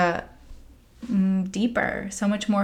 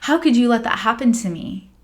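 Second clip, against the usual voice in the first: louder, slightly higher accusing cry; retold anger; 4 semitones higher, 5 dB louder, faster than usual. To her healing master, a mild mock outburst. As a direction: hurl the blame at him. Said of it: "I was so mad at John Michael".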